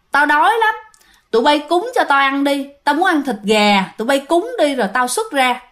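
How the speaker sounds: a hint of a ghost's voice, softened and asking; lightly voiced spirit, gentler now, begging for food. Possessed coworker's spirit asks the room for chicken, mildly softened. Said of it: "dịu giọng lại nói rằng".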